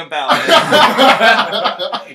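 slow, loud laughing punchline. Real, not acted.

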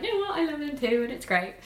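high, bright retelling of Tiana; voicing Tiana's sudden joy; Tiana's happy realization. Tiana realizing Naveen loves her, high excited voice. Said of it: "she's like".

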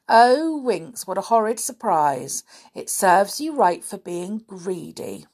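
gleeful told-you-so jeer; mocking taunt. Binky taunting greedy Winks, mock scolding. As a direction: rub it in, teasing the greedy friend. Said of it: "cried Binky".

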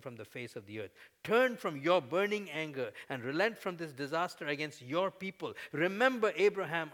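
key words pressed hard, opening cry loud; emphatic prayer. Shown as a demonstration. Preacher reading Moses' plea to the congregation, emphatic. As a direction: lean on each plea word by word. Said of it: "I'm gonna emphasize certain words".

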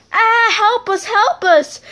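high, hammed-up cry for help; imitating scared passengers; mock panic. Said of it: "He tried to voice our voices".

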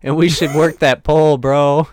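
put-on high creaky old man. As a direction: croak it like a grandpa.

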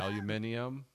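"aluminium" as al-yoo-MIN-ee-um; British pronunciation. Retold or imitated. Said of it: "they'll say it weird".

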